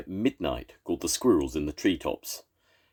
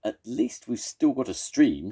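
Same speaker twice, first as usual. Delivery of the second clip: higher, louder, bravely bright; forced cheer; 9 semitones higher, 4 dB louder than usual. Acted. Weasel cheering up worried friends, forced cheer. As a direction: put on a cheerful face. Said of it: "Weasel tried to look cheerful".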